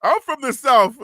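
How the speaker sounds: loud mock-proud declaration; mocking echo. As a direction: parrot the commenter, loud and teasing. Mockingly echoes a viewer's comment.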